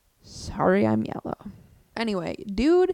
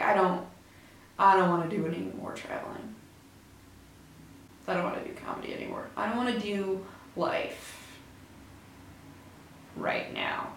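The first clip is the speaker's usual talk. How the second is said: mock crying; 8 dB quieter than usual. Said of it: "woke up and cried".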